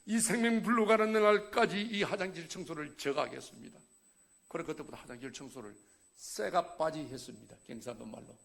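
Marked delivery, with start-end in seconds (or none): 0.1-3.8 retold vow, loud and raised; earnest vow. Man vows to God to clean the toilets, loud pledge. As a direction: declare the promise firmly to God.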